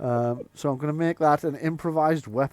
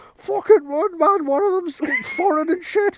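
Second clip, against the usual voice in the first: put-on high, loud yelping teenager voice. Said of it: "three teenagers go running past and go".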